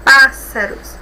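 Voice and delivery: "pássaros" with a firm beat on PÁS; stress first syllable. Shown as a demonstration. Teacher showing where the accent belongs, "pássaros" stressed on PÁS. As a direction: land hard on the PÁS of "pássaros". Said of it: "Na sílaba forte".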